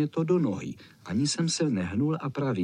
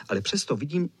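ordinary delivery, nothing marked

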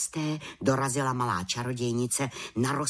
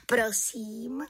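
light, higher, unforced reply; calm reply; 9 semitones higher than usual. Acted. Little witch answers the task, calm light reply. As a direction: answer easily, in a small witch's voice. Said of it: "řekla klidně".

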